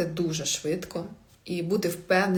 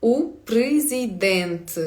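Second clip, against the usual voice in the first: "У президент" drawn out slowly, syllable by syllable; slow-motion Portuguese "У президент"; slow model pronunciation; much slower than usual. Shown as a demonstration. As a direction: stretch "У президент" for learners to repeat. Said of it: "Давайте за мною".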